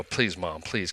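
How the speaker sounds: soft pleading. Retold or imitated. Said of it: "And then I would go".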